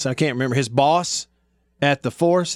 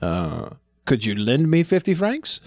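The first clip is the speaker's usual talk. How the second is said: mock French accent. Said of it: "doing their French accents".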